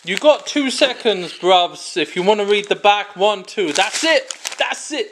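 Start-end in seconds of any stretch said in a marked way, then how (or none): 4.6-5.1 same words again, much softer; softer repeat. Shown as a demonstration. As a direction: let the repeat fall away quietly. Repeats the call, dropping away.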